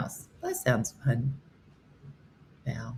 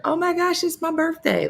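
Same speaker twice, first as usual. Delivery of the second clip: high, excited dog voice; voicing the dog; 13 semitones higher than usual. Owner voicing her dog's happy birthday face. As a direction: squeal it like a thrilled little dog. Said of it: "This is her".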